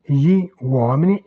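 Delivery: "gli" set apart from "uomini"; words separated. Shown as a demonstration. Teacher showing beginners how to start out, words separated. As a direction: say "gli", then "uomini", as two distinct words. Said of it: "vous les séparez".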